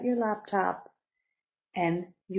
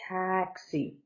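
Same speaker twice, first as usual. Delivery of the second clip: Taxi drawn out, TAX stressed, xi falling; careful teaching model of Taxi; stress on first syllable; 3 dB quieter than usual. Shown as a demonstration. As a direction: lean on tax, drop the xi. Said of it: "Stress is on the first".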